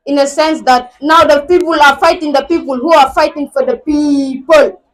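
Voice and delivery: declaimed school-assembly poem; poem recitation. Acted. Student reciting a poem about the motherland to the school, declaimed. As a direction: recite it firmly, phrase by phrase.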